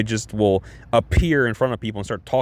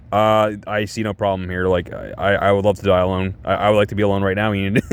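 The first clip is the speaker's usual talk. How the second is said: mildly acted deadpan indifference; 2 semitones lower than usual. Acted Wednesday, unmoved reply to Enid.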